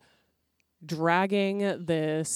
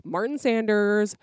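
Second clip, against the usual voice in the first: loud, fast telling-off; a crone's hurried snapping dismissal; angry old woman; 3 semitones higher, 5 dB louder, faster than usual. Retold or imitated. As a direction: shoo him out in a rush. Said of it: "And she's like".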